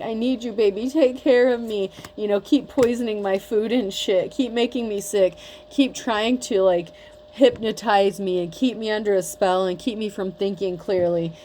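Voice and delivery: hamming up a clingy ex begging to come back; mock crying plea. Reader mocks the ex who wanted her back crying: mock whiny plea. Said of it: "crying, like".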